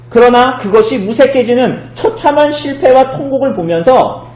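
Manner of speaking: high, loud proclamation; impassioned preaching. Real, not acted. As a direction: build into a forceful sermon climax. Preaching at full force. (힘주어 외치는 설교)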